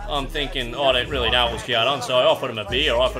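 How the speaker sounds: lightly voiced gruff Aussie tradie; bricklayer character. Bricklayer trolling a Warzone teammate, lightly voiced tradie. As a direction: play a worn-out old brickie having a whinge. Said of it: "I'm playing a fifty-eight-year-old bricklayer".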